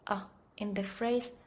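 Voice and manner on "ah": short, light, weak "ah"; an almost mumbled "ah"; unstressed "ah" as in "a cup of tea"; neutral tone. Shown as a demonstration. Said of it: "like saying the unstressed".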